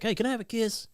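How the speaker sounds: put-on dad cooing to his baby daughter for a kiss; baby talk. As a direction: coo it like you're talking to a toddler.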